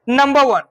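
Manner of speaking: नंबर said nəmbə with the final r dropped; number without the r. Shown as a demonstration. Teacher shows students modern speaking, r dropped in नंबर. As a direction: drop the r in नंबर: nəmbə wən. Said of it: "ऐसे बोल कभी चले".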